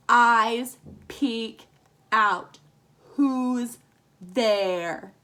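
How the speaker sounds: very slow, each syllable counted apart. Shown as a demonstration. Teacher counting syllables for the class, very slow and separated. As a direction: tap out every syllable slowly. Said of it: "Our last line should have five syllables".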